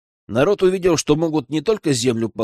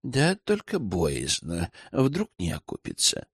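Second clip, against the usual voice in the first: slow, soft, hesitant drawl; drawn out; 5 semitones lower, 7 dB quieter, slower than usual. A narrator's reading. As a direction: stretch the words, wary and quiet. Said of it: "протянул Тихомир". (протяжно и тихо, с опаской)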